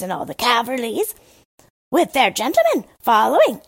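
the Crow boasting of the grand court; storyteller's Crow. Acted.

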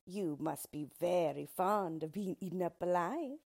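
a small creature greeting the queen; yellow dwarf. Acted. Dwarf greets the frightened queen, lightly voiced sly.

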